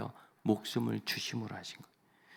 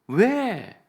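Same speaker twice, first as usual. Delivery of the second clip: blunt why; 11 semitones higher, 11 dB louder than usual. Retold or imitated. Husband's blunt question.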